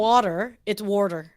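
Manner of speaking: "water" said with an R sound in the first syllable; Boston-style "water" with an added R; Boston pronunciation. Shown as a demonstration. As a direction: say "water" as "worter". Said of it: "except when you, they want to say".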